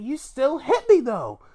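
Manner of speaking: high-pitched mock accusation; put-on falsetto complaint; mock squabbling wrestler. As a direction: squeal it like an indignant wrestler, played for laughs. Acted ring argument between wrestlers.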